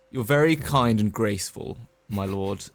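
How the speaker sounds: mock courtly. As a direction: flatter the lord with a grand bow. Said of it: "What you doing, Kai?".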